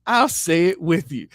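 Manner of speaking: shouted through laughter; laughing while finishing the dare. Real, not acted. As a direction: laugh out the last words. Quote dissolving into laughter.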